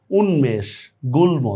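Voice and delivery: উন্মেষ as "unmesh", গুল্ম as "gulmo"; m fully pronounced. Shown as a demonstration. Teacher lists exceptions, উন্মেষ and গুল্ম with m sounded. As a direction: keep each m audible in উন্মেষ, গুল্ম. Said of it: "উচ্চারণটা বহাল থাকে".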